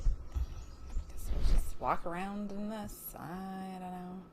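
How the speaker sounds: talking while munching chips; words through a mouthful of chips; crunching chips. Real, not acted. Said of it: "Sorry, I'm eating chips".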